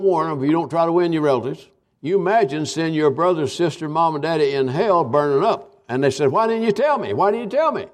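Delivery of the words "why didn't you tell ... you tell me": high, desperate repeated cry; anguished plea. Pretend. Relatives burning in hell crying out to the silent believer, high anguished plea. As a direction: beg like a lost soul accusing you.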